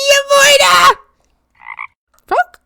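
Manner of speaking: high loud call; shouted goodbye. Real, not acted. Streamer shouting goodbye to a viewer.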